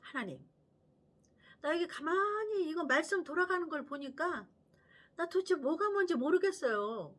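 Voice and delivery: a hint of a child asking God for help; childlike prayer. Shown as a demonstration. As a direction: plead to God like a confused child. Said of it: "이렇게 기도하는 거야".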